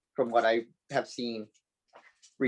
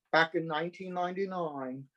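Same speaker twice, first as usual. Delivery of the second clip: a hint of mock British, a bit softer; quasi-British accent; 3 semitones higher, 4 dB quieter than usual. Podcast guest recalling when the show premiered, quasi-British accent. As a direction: slip lightly into a half-British accent. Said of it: "quasi-British accent".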